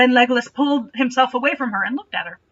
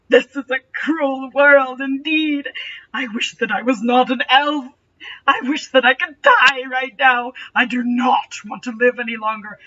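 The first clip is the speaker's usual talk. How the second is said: mock despair; 4 dB louder than usual. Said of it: "he began to weep".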